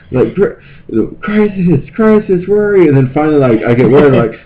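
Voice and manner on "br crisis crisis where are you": high, carrying call across the dark; mock search call. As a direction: call his name like searching in the woods. Calling out for missing friend.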